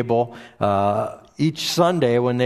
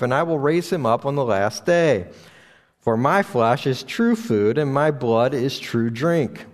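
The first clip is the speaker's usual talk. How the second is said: scripture reading. Acted. Pastor reading John to his congregation, solemn and steady. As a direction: read the Gospel passage steadily to the church.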